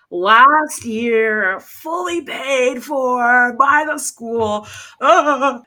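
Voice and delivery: hammed-up fake crying, drawn out slowly; mock sob ending in a wail. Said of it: "That's my crying voice".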